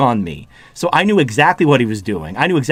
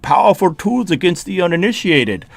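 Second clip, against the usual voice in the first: put-on film villain voice, dropping lower as it goes; Bane; 3 semitones lower than usual. Streamer answers alpha male posturing as a menacing villain, Bane impression. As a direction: do a theatrical masked-villain impression, sinking in pitch. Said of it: "like, a Bane impression".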